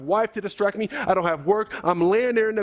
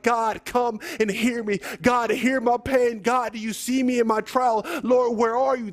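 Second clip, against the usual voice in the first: higher, pleading cry to God, acted mildly; 4 semitones higher than usual. Psalmist calling to God in his trial, crying out. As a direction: plead upward at normal volume. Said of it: "he's just crying out to God".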